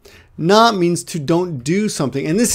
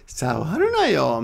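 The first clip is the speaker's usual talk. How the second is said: softer intonation. Shown as a demonstration. Teacher showing students how intonation softens a command, soft plea. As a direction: gently coax someone to leave it alone. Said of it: "could actually be softer or stronger".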